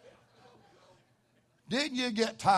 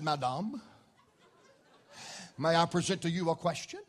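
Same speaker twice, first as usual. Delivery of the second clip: mock-refined, softer and faster, laughing; mock educated; 3 semitones lower, 4 dB quieter than usual. Preacher mocking education to the lady, laughing. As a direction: put on a posh lady-like air. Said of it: "break my education out".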